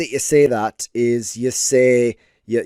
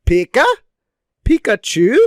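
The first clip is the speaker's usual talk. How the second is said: Pika and Pikachu called out louder, rising at the end; inflected Pikachu; 9 semitones higher, 5 dB louder than usual. Shown as a demonstration. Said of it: "the way it would be inflected".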